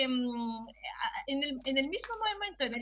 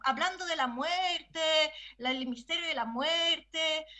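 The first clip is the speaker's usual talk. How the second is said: slow, drawn-out mock gravity; mock columnist tone; 2 semitones higher than usual. Panelist parodying columnists writing about death, mock-dramatic tone. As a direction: intone it like an overdramatic columnist. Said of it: "a quiénes leíste en ese tono".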